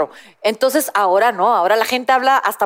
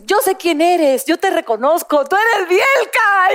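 excited fan; 6 semitones higher, slower than usual. Retold or imitated. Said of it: "y entonces le dice".

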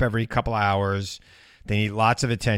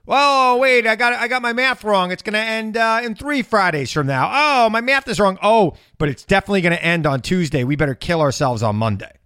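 high, loud frantic prophet voice; mock cult leader; 8 semitones higher, 5 dB louder than usual. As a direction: play a flustered doomsday preacher.

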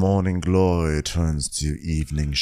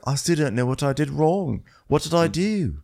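put-on confused boyfriend; 7 semitones higher than usual. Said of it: "And he's like".

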